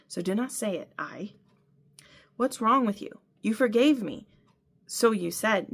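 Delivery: reading a novel aloud, acting both voices; story narration. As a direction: tell the fight scene as a reader. Reads book passage aloud.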